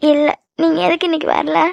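upset, holding back tears; voice sounds off. Acted. Girlfriend asking why he stayed away, upset. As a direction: ask it with suppressed hurt. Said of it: "voice ஒரு மாதிரி இருக்கு".

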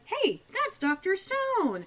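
high, drawn-out exclamation; acted surprised recognition. Acting out Phoebe's startled recognition.

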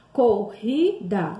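"corrida" drawn out very slowly with a throat R; slow guttural R demo. Shown as a demonstration. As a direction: stretch "corrida" and rasp the RR. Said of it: "som que vem arranhando a nossa gargantinha". ("corrida" bem lenta, com o RR arranhado)

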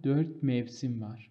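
very slow, word by word; slow dictation. Shown as a demonstration. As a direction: stretch the sentence out for copying. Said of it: "ببینید، آخر این جمله اومده".

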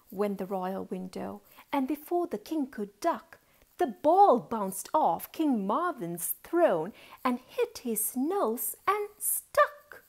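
lilting storybook reading; story narration. A narrator's reading. Auntie tells children of a boy and his ball, lilting narration. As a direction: tell it in measured, rhyming phrases.

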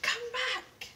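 high, loud call after someone. Acted. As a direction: call them back across the room. Story character calls out.

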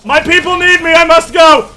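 high, loud, hammed-up heroic cry; dramatic hero exit. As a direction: play the noble hero fleeing. Hammy heroic retreat line.

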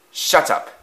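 curt angry snap; snapping. Acted. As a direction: cut them off sharply. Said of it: "snapped Afton".

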